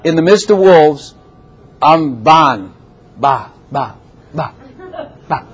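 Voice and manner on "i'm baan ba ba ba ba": playful mock sheep baa; lightly bleated baa. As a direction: bleat like a little sheep among wolves. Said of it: "As a sheep".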